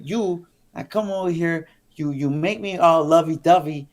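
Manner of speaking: imitating a mad partner's rant; retold anger. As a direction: act out her fed-up tirade. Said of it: "she was so mad".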